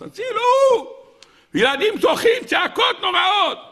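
high, hammed-up distress cry; screaming for help. Storyteller acts a woman and children crying out, mock screaming. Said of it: "אישה צורחת".

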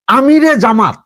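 "আমিরে জামাত" pronounced as one set title; imitated pronunciation. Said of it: "এভাবে কিন্তু উচ্চারণ". ("আমিরে জামাত" উচ্চারণ নকল করে)

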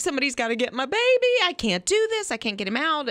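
half-playful frazzled mom who can't cope; frantic mother. Retold or imitated. Retelling a mama elephant's plight, frantic.

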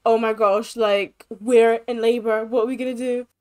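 mock panic to Lauren. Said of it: "We need to be like".

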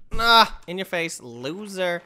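slow, lightly mocking in your face; gloating taunt. Real, not acted. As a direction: tease him with mild gloating. Gloating at game character.

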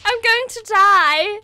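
high, loud hammed-up cry for help; yelling as if the moth will kill her; mock panic scream.

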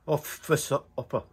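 Scottish accent. Shown as a demonstration. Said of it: "It's a Scottish accent".

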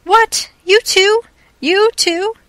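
high, loud, incredulous questions; shocked, disbelieving outcry; startled. A narrator's reading. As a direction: burst out in astonishment, pitch leaping. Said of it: "Richard gave a jump".

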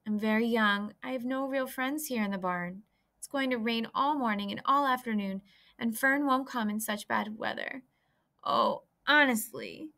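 a little pig feeling sorry for himself; lonely young pig. Acted. Wilbur laments his loneliness.

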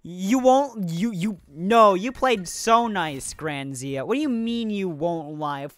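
mock outrage. Real, not acted. Arguing with opponent in game.

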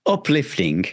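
uplifting said with extra weight, drawn out and falling; emphasized word. Real, not acted. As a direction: lean on uplifting, let it land with a fall. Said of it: "I'm emphasizing that word".

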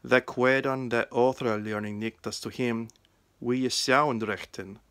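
put-on West Saxon Old English reading, steady. Shown as a demonstration. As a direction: read the Gospel in Old English, 'queth' said as kweth. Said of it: "The reading is from the Gospel of John in West Saxon".

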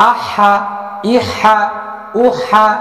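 আহা, ইহা, উহা chanted high, with the doubled letter held; tashdid drill. Shown as a demonstration. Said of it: "এর পরের হরফ হচ্ছে". (উঁচু সুরে তাসদিদের অনুশীলন)

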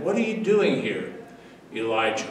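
hushed and tender, the still small voice; calm soothing voice. Acted. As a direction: ask it softly, to calm a frightened man. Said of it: "that calm, soothing voice would ask".

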